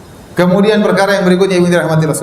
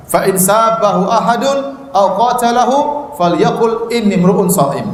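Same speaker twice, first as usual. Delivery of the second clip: slow, measured Arabic recitation; lantunan hadis; slower than usual. Acted. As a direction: draw out each word like chanting scripture. Membaca hadis berbahasa Arab. (melantunkan hadis perlahan dan khidmat)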